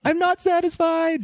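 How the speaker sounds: a gentle inflatable robot speaking; Baymax robot voice. Retold or imitated.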